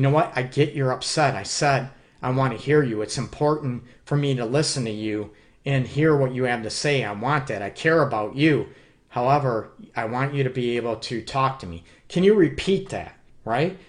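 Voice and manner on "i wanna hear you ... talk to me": caring tone. Shown as a demonstration. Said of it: "keep going after the care and compassion".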